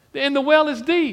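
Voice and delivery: high, loud, sarcastic voice.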